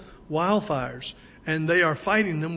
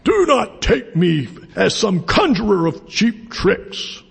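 big booming wizard voice; loud, forceful rebuke that fills the house; Gandalf; 3 semitones higher, 6 dB louder than usual. Acted. Wizard rebuking Bilbo as the house creaks, big booming voice. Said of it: "in this big booming voice".

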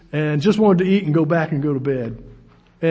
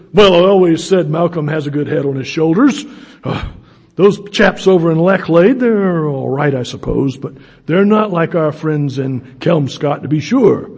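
mock English colonel, louder delivery; retired English colonel; 3 semitones lower, 4 dB louder than usual. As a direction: imitate an old-school English officer. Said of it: "retired English colonel".

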